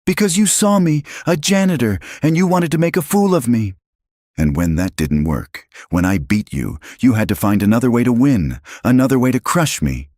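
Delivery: high, loud, raw-voiced rage; a father yelling through hurt; anguished shouting. A narrator's reading. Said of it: "his voice raw with anguish".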